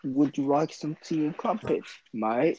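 amateur put-on British accent. Shown as a demonstration. Showing co-host a British accent, playfully overdone British. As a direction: offer it in a mock British voice. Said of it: "you wanna hear my British accent?".

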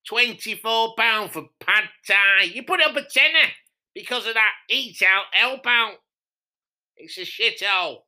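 mock outraged punter; indignant complaint. Rival complains about prices.

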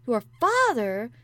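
loud, slow gasp of surprise; a stunned, breathless question. A narrator's reading. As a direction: catch your breath on the words. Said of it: "gasped Mary".

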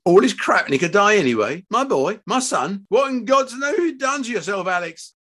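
high, distraught father's lament; anguished outcry. A narrator's reading. Father told his child may die, anguished outcry. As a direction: wail it up high in despair.

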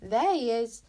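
loud exclamation of discovery; relieved find, hit hard; triumphant relief. A narrator's reading. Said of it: "she said with triumphant relief".

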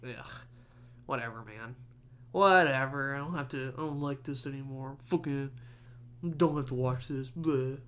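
mock sulky grumbling; grumpy hater. A Patriots hater sulking at the Super Bowl result, mock grumpy. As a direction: grumble like a sore fan giving up. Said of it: "Being a grumpy hater".

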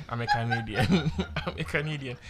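laughing through the line; giggling while correcting it. Shown as a demonstration. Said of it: "that didn't come out right".

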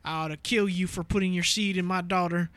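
lightly voiced Southern dude. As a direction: imitate a cartoon Southerner. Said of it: "two Southern dudes, and he's like".

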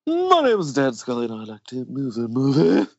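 silly sign-off voice, rising at the end; put-on sign-off voice.

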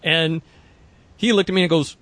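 ordinary talk

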